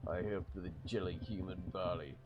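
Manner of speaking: a loose Irish brogue for a big creature; Irish accent. Acted. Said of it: "I think his accent is kinda Irish".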